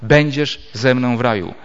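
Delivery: "będziesz" set apart as a new phrase; pause before będziesz. Shown as a demonstration. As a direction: begin afresh on "będziesz", falling to "raju". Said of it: "w tym miejscu drugim".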